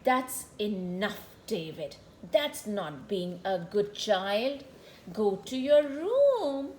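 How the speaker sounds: low, firm stern mom; stern mother. Acted. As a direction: lay down the law. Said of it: "Mama says".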